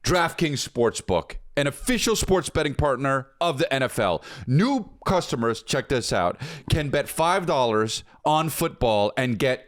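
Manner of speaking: punchy, drawn-out sponsor pitch; hyped ad read. Acted. Host pitching sports betting to listeners, hyped ad read. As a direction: sell it with big stressed key words.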